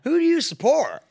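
high, hammed-up American accent; bad American accent. Imitating an American bar patron, a bad American accent. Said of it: "every accent but American".

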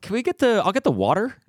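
high-pitched, halting mock-meek request; timid ordering. Acting out timid order at pricey restaurant.

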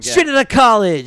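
tipsy, loose loud repeat. Real, not acted. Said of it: "I'm drunk".

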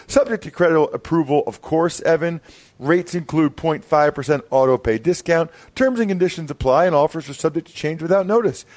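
upbeat sponsor read, brisk. Acted. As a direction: sell it like a podcast ad. Host reads sponsor ad.

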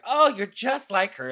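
high-pitched gushing compliment; gushing fans. Retold or imitated. Audience praises the impression of a singer, gushing. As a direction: exclaim it high, like an impressed crowd. People gush over the impression.

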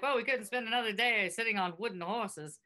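put-on old-timey announcer voice; mild vintage radio singer; 1930s radio announcer. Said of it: "David sounds like a nineteen thirties radio announcer".

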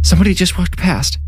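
high, shaky-edged frightened voice; startled whimper. A narrator's reading. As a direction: squeak it out, scared of what she saw. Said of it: "Danny whimpered, suddenly quiet".

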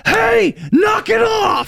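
very high, hammed-up shriek; comic high-pitched telling-off; imitated scolding yell. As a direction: yell it high, mocking a panicked friend. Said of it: "favorite s-, comment you've ever made to me".

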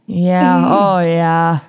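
low, drawn-out Minnesotan "oh, yeah"; hammy Minnesota accent. Pretend. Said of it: "unleash their worst Minnesotan accents".

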